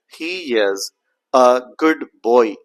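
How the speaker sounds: slow, separate words with the D in "good" sounded; without assimilation. Shown as a demonstration. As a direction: release the D before "boy" in "good boy". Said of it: "if you speak out the sentence like".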